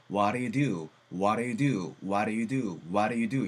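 "What do you do" slurred to waɾe du; fast reduced speech. Shown as a demonstration. Teacher demonstrating fast native reduction. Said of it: "이렇게 빨리 넘어갈 수가 있으니까".

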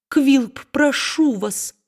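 high, urgent plea with a slow ending; high pleading cry. A narrator's reading. Wife calling to Quilp at the window, high plea. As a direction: cry out his name, begging. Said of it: "воскликнула она".

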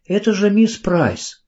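high, slowed surprised cry; can't believe it's her; surprised recognition. A narrator's reading. Carrie recognises Miss Price on the grass, astonished. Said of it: "голос её дрогнул от удивления".

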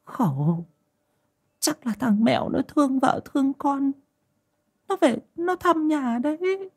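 calm her down gently; soothing. A narrator's reading. Old mother comforts her frightened daughter-in-law, soothing. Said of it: "Bà Núi trấn an".

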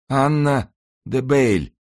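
slow, high, strained utterance; wounded man's gasped reply. A narrator's reading. Dying man yields the name to monk, high and strained. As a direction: give up the name in a thin high voice. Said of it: "прошептал раненый".

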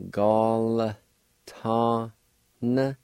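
Gal, ta, n given as separate syllables; syllable demo. Shown as a demonstration. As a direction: show the silent L part slowly. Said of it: "like this".

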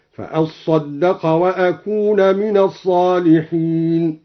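"وأكون" with long u, wa-akūna, slow; Quranic recitation. Shown as a demonstration. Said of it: "قرأ وأكون". ("وأكونَ" عطفًا على "فأصدق")

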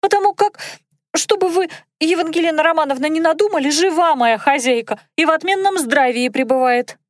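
high, fast squeaky maid; squeaky girl voice. A narrator's reading. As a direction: chatter in a thin squeak. Dunka keeps her squeaky voice.

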